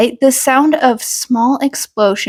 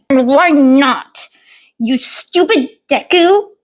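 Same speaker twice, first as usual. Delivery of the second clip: louder, mocking jab at a smaller kid; bratty snap; 3 semitones higher, 4 dB louder than usual. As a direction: sneer it down at him. Bully snaps at smaller boy.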